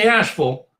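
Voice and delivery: Asheville as "ASH-vul"; local North Carolina pronunciation. Shown as a demonstration. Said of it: "say it the way the North Carolinians".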